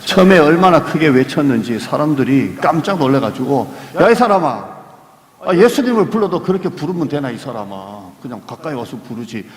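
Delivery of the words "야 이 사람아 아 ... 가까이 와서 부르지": mock scolding. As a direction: scold a noisy man, half-earnest. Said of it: "그를 꾸짖습니다". (놀라서 꾸짖는 흉내)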